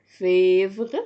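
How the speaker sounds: "فيفغ" loud, with a clear "é"; accented E. Shown as a demonstration. Teacher showing the accent rule, "فيفغ" said with "é". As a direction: stress "فيفغ", its first vowel a clear "é". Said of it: "أكسنت نطق إي".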